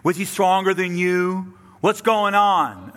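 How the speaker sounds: indignant officials interrogating their guards; exasperated Pharisees. Acted. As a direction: press the guards hard for answers. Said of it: "you can hear that, right?".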